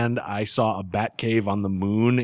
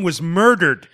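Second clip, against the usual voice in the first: gleeful; 7 semitones higher, 8 dB louder than usual. Real, not acted. Gleeful about character's death.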